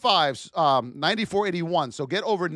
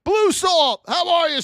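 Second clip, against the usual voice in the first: high, loud, cheering a viewer's name; hype shout-out; 9 semitones higher, 7 dB louder than usual. Real, not acted. Streamer cheering a viewer who just sent a gift, loud and high. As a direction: call it out like a stadium announcer.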